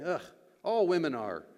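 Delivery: mock exasperated groan and generalization; eye-rolling disdain. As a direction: say it with an audible eye-roll. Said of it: "and we roll our eyes".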